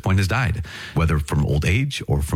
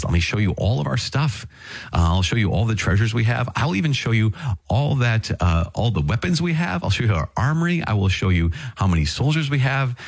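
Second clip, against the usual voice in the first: higher, showing-off king voice; boastful king; 6 semitones higher than usual. Retold or imitated. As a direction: play Hezekiah proudly parading his treasures. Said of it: "comes along and he says".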